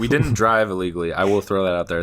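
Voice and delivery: level, earnest disclaimer; dead serious. Real, not acted. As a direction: state it for the record, no joking. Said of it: "That's me being dead serious".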